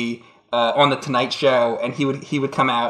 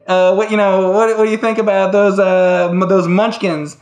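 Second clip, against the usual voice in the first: asking the witch; 4 semitones higher, 4 dB louder than usual. Acted. Questioner voiced in Witch skit.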